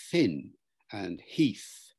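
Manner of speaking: tongue between the teeth for TH in "thin", "heath"; TH sound. Shown as a demonstration. Teacher giving examples, "thin" and "heath" with careful TH. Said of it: "the T H sound".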